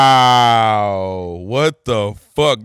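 slow loud stunned yell; loud shocked outburst. Pretend. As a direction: shout it in disbelief.

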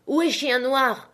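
high, slow, changed voice crying out; frightened cry. A narrator's reading. Captain waking and crying out in alarm, slow high panic. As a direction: wake up panicked and call for the enemy. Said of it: "en criant".

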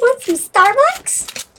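man doing a woman's voice. Pretend. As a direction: drawl it out like a cute girl. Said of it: "Now you sound like a girl".

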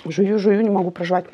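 talking with a full mouth; words through a mouthful of food; с набитым ртом. Real, not acted. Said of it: "Полный рот натолкала". (говорит с полным ртом)

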